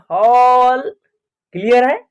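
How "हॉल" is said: हॉल with a long rounded 'aw'; AW vowel in हॉल. Shown as a demonstration. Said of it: "ए का उच्चारण अ कब होगा". (हॉल में लंबा ऑ)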